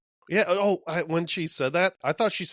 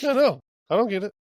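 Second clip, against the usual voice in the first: exasperated; 6 semitones higher, 5 dB louder, much faster than usual. Real, not acted. Exasperated reaction.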